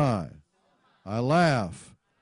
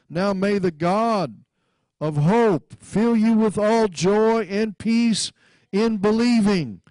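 declamatory scripture reading; 5 semitones higher, 3 dB louder than usual. Real, not acted. Declaims scripture over congregation.

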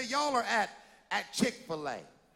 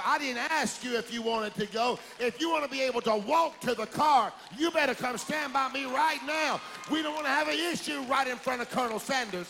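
stern parent; 2 semitones higher than usual. Retold or imitated. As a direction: warn the child with no room for argument. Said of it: "parent answering child".

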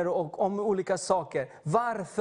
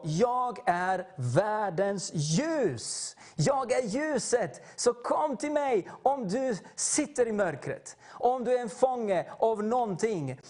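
solemn Jesus quote; 3 semitones higher, slower than usual. Retold or imitated. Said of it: "Jesus talade till dem och sa".

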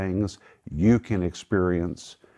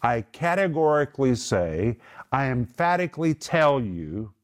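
emphatic declaration, slightly raised pitch; mildly raised commanding voice; lifted, emphatic voice; 4 semitones higher than usual. Retold or imitated. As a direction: declare it firmly, leaning on key words. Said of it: "he's lifting his voice and he's literally saying".

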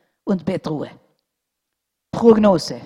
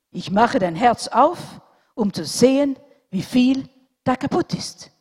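mildly irritated doctor; 6 semitones higher, 7 dB louder than usual. A narrator's reading. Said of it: "etwas verärgert".

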